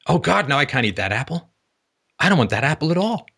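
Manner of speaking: high, disgusted customer turning down the apple; hammed-up fussy customer; fussy refusal. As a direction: play the impossibly picky buyer. Acting fussy customer rejecting apples.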